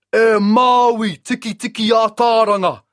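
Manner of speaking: high booming giant voice; a mighty sun straining against ropes and shouting; the trapped sun shouting at Maui; sun god voice. A narrator's reading.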